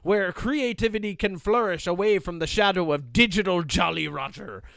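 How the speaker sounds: hammy pirate read. Acted. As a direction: sea dog reading aloud. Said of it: "Do it in the pirate voice".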